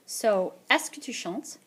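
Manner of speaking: est-ce que tu chantes said slowly and clearly; slow model question. Shown as a demonstration. Teacher modelling a question slowly for the class. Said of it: "model question sentence".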